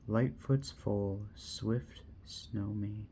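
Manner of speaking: slow, fading solemn verse; slow epitaph reading. Acted. Reader finishing the Snowmane epitaph, slow and solemn.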